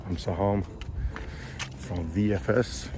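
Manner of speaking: hoarse, strained voice; talking with a worn-out voice; lost voice. Real, not acted. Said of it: "I have no voice left in me".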